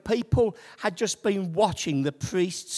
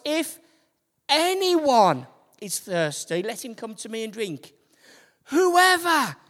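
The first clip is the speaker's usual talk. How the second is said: higher and louder, calling out; 4 semitones higher, 4 dB louder than usual. Retold or imitated. Jesus calling to everyone at the feast, loud. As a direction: lift it to reach the whole temple. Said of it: "said in a loud voice".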